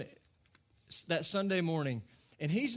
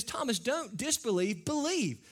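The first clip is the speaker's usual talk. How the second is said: higher, firm but kind; Jesus gently rebuking doubting Thomas; gentle rebuke; 7 semitones higher than usual. Acted. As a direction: correct him with grace. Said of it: "he rebukes Thomas".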